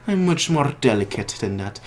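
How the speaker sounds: high-pitched cartoon villain voice, dropping on the last line; Joker. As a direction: put on a villain's high voice, then sink softly. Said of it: "this guy's voice would be something like".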